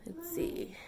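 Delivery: quick hushed whisper. Real, not acted. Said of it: "I'm whispering because my husband".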